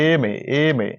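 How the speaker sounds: এমএ said slowly, opening on the vowel e; sounding out MA. Shown as a demonstration. Teacher sounding out an abbreviation for students. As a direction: repeat এমএ letter by letter. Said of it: "উচ্চারণ করো".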